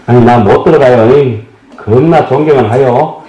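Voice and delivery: mock Jeolla excuse, lightly played; Jeolla dialect. Pilgrim who can't get into the hall, Jeolla dialect. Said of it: "전라도 분들 ... 하시는 말씀이란".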